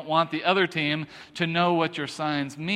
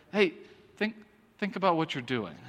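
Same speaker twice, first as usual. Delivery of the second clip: lightly voiced parent, softer and halting; admonishing parent; 5 dB quieter than usual. Father telling his kids to reflect, hushed admonishing. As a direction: softly pull a kid up short. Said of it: "said that to my kids".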